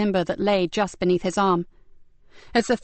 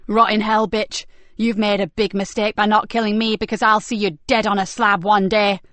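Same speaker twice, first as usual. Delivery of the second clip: defiant angry yell; 4 dB louder than usual. Acted. Nicky yelling after attackers.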